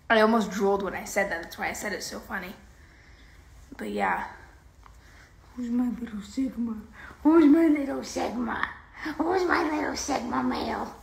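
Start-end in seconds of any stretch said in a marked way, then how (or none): 5.6-10.9 cooing, rising to high and loud. Real, not acted. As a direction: sweet-talk the little dog. Cooing at puppy.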